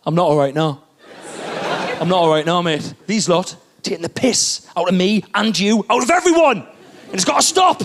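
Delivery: angry rant. Retold or imitated. Steve snapping at the comedian in Asda, building to a mock shout. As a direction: grumble then build to a mock outburst. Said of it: "turned round and went".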